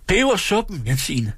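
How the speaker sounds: high shout breaking off; calling out. Acted. Innkeeper shouts the order through the hatch. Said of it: "råbte han ud gennem lemmen".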